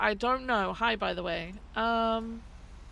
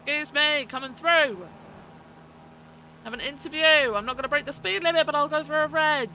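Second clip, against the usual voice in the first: excited calling out; 4 semitones higher, 5 dB louder than usual. Acted. Rushing through traffic, calling out.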